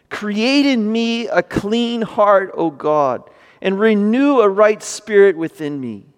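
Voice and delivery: measured psalm reading, phrase by phrase; solemn scripture reading. Acted. Preacher reads David's prayer to the congregation, solemn and measured. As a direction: read it out as a deliberate plea to God.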